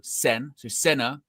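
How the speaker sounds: SEN alone, then Senna stressed on SEN; stress on first syllable. Shown as a demonstration. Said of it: "emphasis on the first syllable".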